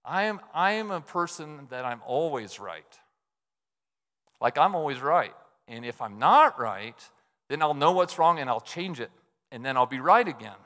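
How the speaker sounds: mock self-righteous, deadpan boast; sarcastic. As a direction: say it like you truly believe you're always right, tongue in cheek. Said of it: "I'm being sarcastic".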